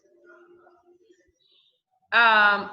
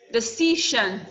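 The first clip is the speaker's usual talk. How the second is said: "Decision" with the stress on CI; stress on second syllable. Shown as a demonstration. Teacher showing students an example, "Decision" stressed on CI. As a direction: hit the middle syllable of "Decision". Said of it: "the C is the second".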